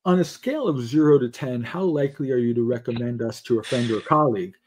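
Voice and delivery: mock formal survey wording, rattled off at the end; stilted survey question. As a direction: recite it like a scripted questionnaire nobody would say. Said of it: "who in their right mind talks like that".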